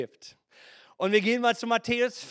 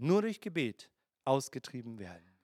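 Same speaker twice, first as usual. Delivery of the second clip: softer and lower, weighing "Nur durch Gebet"; quiet emphatic repeat; 11 semitones lower, 7 dB quieter than usual. Shown as a demonstration. Preacher repeating the verse to the congregation, low and quiet. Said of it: "können nur durch Gebet ausgetrieben werden".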